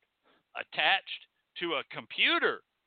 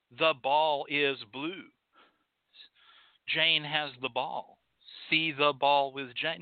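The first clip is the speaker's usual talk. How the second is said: slow, measured mock reading-book lines; mock primer reading; 2 semitones lower, slower than usual. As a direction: recite it slowly like a first reader. Mocking a primer reader.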